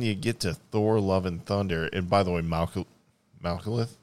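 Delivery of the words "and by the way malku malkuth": talking through peanut butter; mouth full of peanut butter. Real, not acted. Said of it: "As I have peanut butter in my mouth".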